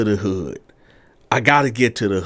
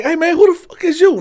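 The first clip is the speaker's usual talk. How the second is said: higher, louder, threatening; hostile challenge; 5 dB louder, faster than usual. Retold or imitated. Dealer in the car snapping at the intruder, hostile. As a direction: back off, stranger.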